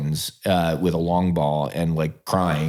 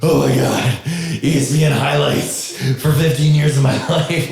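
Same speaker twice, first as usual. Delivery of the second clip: excited yelp; 6 semitones higher, 4 dB louder than usual. Retold or imitated. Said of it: "I'm over there going like".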